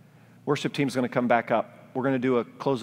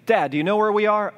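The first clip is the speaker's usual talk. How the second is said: daughters asking; 10 semitones higher, 6 dB louder than usual. Retold or imitated. Daughters asking lost dad.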